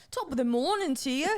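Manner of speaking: lilting stab at Irish; attempted Irish accent. Co-host practising on comedy show, attempted Irish accent. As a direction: try a stock Irish greeting. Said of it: "read this in the accent".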